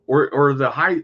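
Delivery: talking through hiccups; words broken by hiccups. Real, not acted. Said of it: "I got the hiccups here".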